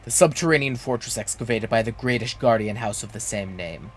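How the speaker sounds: lightly voiced creepy guy in black armor; creepy guard voice. Guard at Zemael Darkhold warns a visitor, mildly creepy. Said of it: "That voice hurt my throat".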